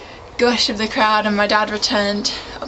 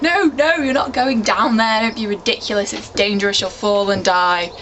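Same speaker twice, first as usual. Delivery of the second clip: mum freaking out. Retold or imitated. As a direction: retell mum's alarm as she begs dad to stay off the cliff. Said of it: "my mum started to freak out".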